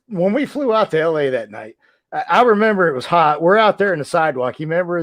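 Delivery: ordinary talk, nothing marked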